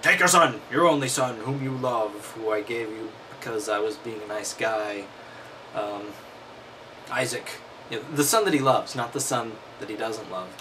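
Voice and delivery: ordinary talk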